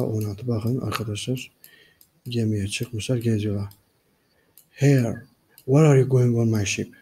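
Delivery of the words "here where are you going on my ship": louder, confronting the boarders; indignant challenge. Acted. Ship's guard challenging the boarders, indignant and loud. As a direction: demand what they're doing aboard.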